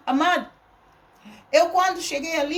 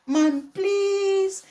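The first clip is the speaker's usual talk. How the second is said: high, drawn-out pleading "please"; pleading small child; 5 semitones higher than usual. Retold or imitated. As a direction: imitate a little boy begging his mother. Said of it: "com aquela carinha pequenina, de seis aninhos".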